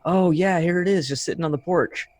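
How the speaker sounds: high, mock-surprised lady voice; lightly hammed driver discovering the bag; imitating the delivery lady. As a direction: pitch up as the driver who just found it. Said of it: "she was like".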